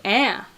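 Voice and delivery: ah as the Buffalo short-a, like the start of "Applebee's"; Buffalo vowel. Shown as a demonstration. Streamer demonstrating hometown speech, Buffalo "ah" sound. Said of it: "It's kind of that sound".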